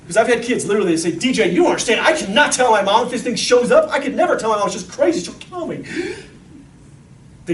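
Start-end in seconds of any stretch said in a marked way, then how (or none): 1.1-5.8 imitating a desperate kid, higher and urgent; mock teenage panic, climbing in pitch and fading at the end; retold panicked kid. Kid confiding in the speaker about telling mom, panicked. Kids pleading not to tell mom.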